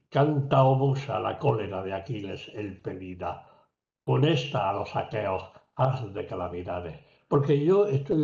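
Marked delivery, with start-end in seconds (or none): 0.1-7.0 second translation recited. Shown as a demonstration. Lecturer contrasting two translations of Homer, second one recited in measured, falling tone. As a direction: recite it evenly, settling down after the opening word. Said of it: "que decir".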